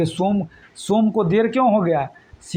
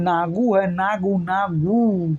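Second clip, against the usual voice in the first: slow, fond drawn-out calling; affectionate nickname; much slower than usual. Shown as a demonstration. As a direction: say it like a pet name. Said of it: "प्यार से उसको नागू कह रहा है".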